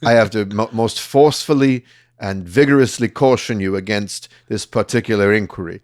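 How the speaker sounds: Oxbridge mafia threat, measured; posh Oxbridge accent. Retold or imitated. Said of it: "crazy mafia threat in this Oxbridge accent".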